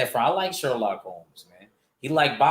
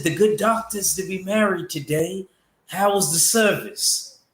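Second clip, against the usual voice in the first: Moriarty's voice; 7 semitones higher than usual. Retold or imitated. Reading chat a line as Moriarty in a British accent. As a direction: put on a posh English villain accent, higher. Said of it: "I always try to say it like Moriarty".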